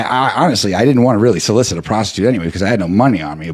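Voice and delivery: ordinary talk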